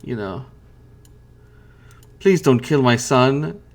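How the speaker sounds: mother pleading with the fiend, lightly voiced; begging. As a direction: beg the captors to spare her son. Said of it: "she begs".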